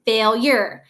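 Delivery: "Failure" in two deliberate syllables; "Failure" with weight given to the second syllable; stress demo. Shown as a demonstration. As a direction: sound out "Failure" part by part. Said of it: "more emphasis on this er part".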